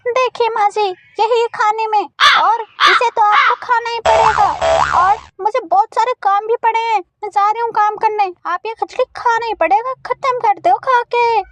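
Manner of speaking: daughter-in-law crow. Acted. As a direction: rush it like a busy bahu. (जल्दी में बहू की आवाज़)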